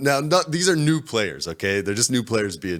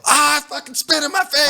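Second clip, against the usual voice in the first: high, loud imitation of a horrified player; mock scream of disgust; screamed outcry; 8 dB louder than usual. Storyteller replaying what he heard a guy scream, high yell. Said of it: "I literally heard a guy go".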